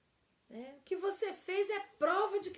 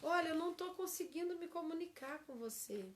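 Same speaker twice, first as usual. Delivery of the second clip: softer honest admission; calm confession; 3 semitones higher, 3 dB quieter than usual. Shown as a demonstration. Teacher shows the right phrasing, soft and sincere. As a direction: say it gently. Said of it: "Olha a frase certa".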